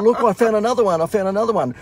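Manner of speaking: put-on a proud child showing off a find; excited child. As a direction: kid running up with a turtle, high and loud. Child voiced in story.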